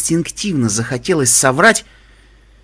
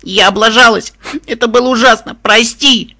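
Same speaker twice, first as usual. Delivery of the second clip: high, loud tearful cry; sobbing apology; 8 semitones higher, 6 dB louder than usual. A narrator's reading. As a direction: break down crying and apologise. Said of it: "разрыдавшись".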